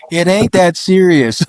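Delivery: high, slow, laughing retort; amused mock protest. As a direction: draw it out high, on the edge of laughter. Joking quote amid shared laughter.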